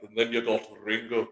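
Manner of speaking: A name. Retold or imitated. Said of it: "every time he got to that name".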